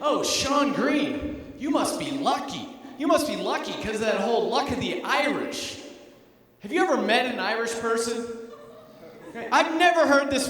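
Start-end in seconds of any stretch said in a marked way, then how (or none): 0.0-5.8 imitating people. Comic mocking strangers who repeat the cliché. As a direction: mimic the clichéd line about Irish luck. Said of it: "everyone likes to say".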